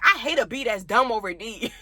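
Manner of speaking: giggling while quoting the friend; laughing as she repeats the friend's insult; laughing through quote. Retold or imitated.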